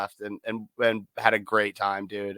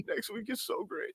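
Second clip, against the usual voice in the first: mock cheerful; 10 semitones higher, 14 dB quieter than usual. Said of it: "And I'm like".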